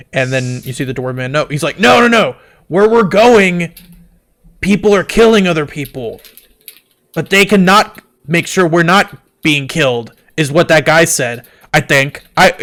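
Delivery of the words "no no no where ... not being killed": higher, slow, pleading explanation; nervously insisting; anxious dwarf. Acted. Dwarf pleading with the Goliath woman, anxious and higher.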